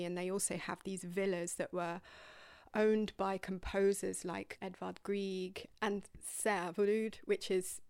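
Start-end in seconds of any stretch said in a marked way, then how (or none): 2.7-7.2 self-mocking Norwegian accent on the names; bad Norwegian accent. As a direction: Norwegian accent, deliberately clumsy. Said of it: "really bad Norwegian accent".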